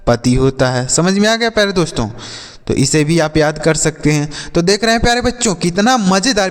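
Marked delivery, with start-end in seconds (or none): 4.5-6.5 upbeat outro. Acted. Cheerful outro.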